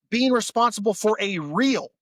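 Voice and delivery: a little tipsy, words slipping. Real, not acted. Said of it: "I'm a little tipsy".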